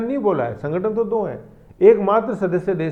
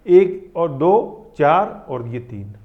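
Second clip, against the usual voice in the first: slow counting; 5 dB louder, much slower than usual. Shown as a demonstration. Teacher counting countries on map.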